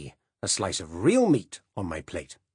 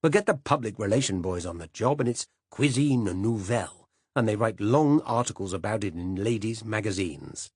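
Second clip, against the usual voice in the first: louder, higher blustering tirade; passionate rant; 4 semitones higher, 4 dB louder than usual. Acted. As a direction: hold forth like an outraged old gourmand. Silas's passionate address on food.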